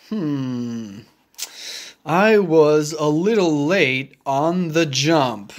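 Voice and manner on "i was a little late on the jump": Gerald voice. Acted. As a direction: lower big elephant voice. Gerald admits he was late.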